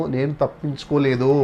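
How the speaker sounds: ordinary talk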